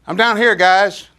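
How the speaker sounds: loud, slow call from down the street. Retold or imitated. Elvis calling the friends from down the driveway, loud and slow. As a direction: shout up to them from far off, slowly. Elvis calls from three houses down.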